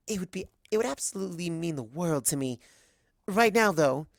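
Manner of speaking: a fan meeting her idol; eager young mare. Acted. Azalea asking Celestia's blessing, breathless admiration.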